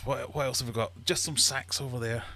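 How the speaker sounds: lightly voiced military characters; questioning officer and soldier. Commander questioning his soldier about sacks, lightly acted high voice.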